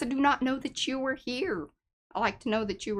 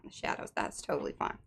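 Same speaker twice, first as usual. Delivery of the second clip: whispered aside; 7 dB quieter, faster than usual. Real, not acted. Aside about viewer in shadows.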